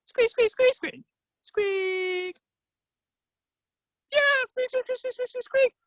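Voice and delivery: very high, excited squirrel squeaking; Ratatosk. Acted. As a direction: squeal a delighted squirrel yes. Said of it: "Ratatosk replied".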